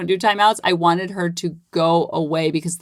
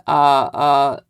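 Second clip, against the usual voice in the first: brain alarm voice; slower than usual. Retold or imitated. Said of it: "My brain's going".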